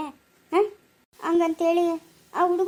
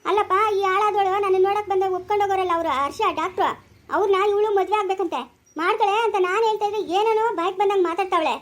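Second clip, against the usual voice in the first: angry complaint; 5 semitones higher, 3 dB louder than usual. Acted. Heated family quarrel over marriage.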